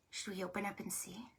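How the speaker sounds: quick, very soft whisper; barely-there, fast whispered question; hushed whisper. Pretend. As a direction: whisper it like a secret about to be revealed. Secretive peek before the reveal.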